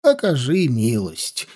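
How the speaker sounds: put-on soft, slow quavering old voice. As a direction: beg in a trembling frail voice. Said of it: "дребезжащим голосом".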